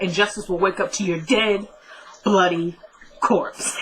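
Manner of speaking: mock-dramatic threat with heavy pauses. Attacker threatening Kelly with a knife, hammed-up dramatic. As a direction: set each last word apart for drama. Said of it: "he was so dramatic".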